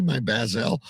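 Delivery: "basil" said as baz-ELL; "basil" with a short a and a full ELL ending; odd pronunciation of basil. Real, not acted. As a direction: say "basil" to rhyme with gazelle. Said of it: "why do you pronounce it like".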